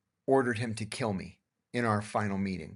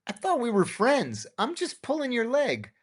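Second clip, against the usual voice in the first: laughing; 12 semitones higher than usual. Retold or imitated. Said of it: "I laughed and I said".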